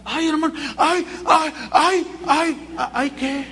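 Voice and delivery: high, startled stammering ay ay ay; a caught man scrambling for words; flustered panic. Retold or imitated. Brother caught by the pastor, high flustered stammer.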